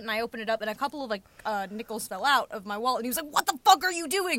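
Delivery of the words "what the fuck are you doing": higher-pitched mock outrage; laughing mock-angry quote; retold angry challenge. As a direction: imitate a stranger's indignant demand, half laughing. Retold stranger angrily challenging the teller.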